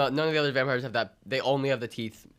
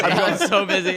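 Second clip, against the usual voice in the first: drawn-out, high mock boast; mock busy diva; 5 semitones higher, 6 dB louder, slower than usual. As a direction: stretch it like a busy star. Mocking repeat of excuse.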